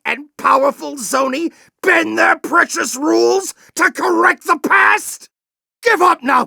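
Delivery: angry shout. Acted. General shouting at Clank to give up. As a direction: yell it with contempt.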